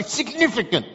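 mimicry of an excitable friend; Gasky. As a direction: imitate his pet phrase, insistently. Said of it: "That's just how he speaks".

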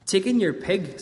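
a hint of a wise old man; lightly voiced kindly old sage.

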